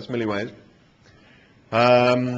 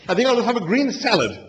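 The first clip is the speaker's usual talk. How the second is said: muttered; 11 semitones higher, 4 dB louder than usual. A narrator's reading. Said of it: "he muttered".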